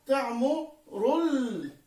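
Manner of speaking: slow, separated syllables blending across words. Shown as a demonstration. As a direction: sound out تعمر ال- in slow syllables. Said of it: "سيحدث عندي تمازج في الكلمات".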